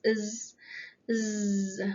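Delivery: Z as a held, buzzing sound; voiced Z. Shown as a demonstration. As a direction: hum the Z so the neck vibrates. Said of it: "you can feel the vibration".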